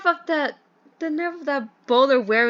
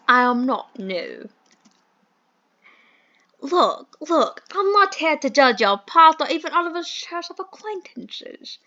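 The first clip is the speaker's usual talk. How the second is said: posh British gentleman; 3 dB louder than usual. Acted. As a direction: play the fussy English employer in a mild posh accent. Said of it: "I hate this accent".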